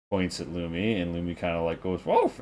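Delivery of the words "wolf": high, mocking echo of "wolf"; sarcastic "wolf". Lumi mocking the priest's obvious remark, sarcastic. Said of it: "as if though, "Yeah, no shit".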